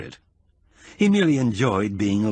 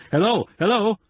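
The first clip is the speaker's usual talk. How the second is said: inane shout; 10 semitones higher than usual. Acted. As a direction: call out without thinking, raised and high. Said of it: "shouting inanely".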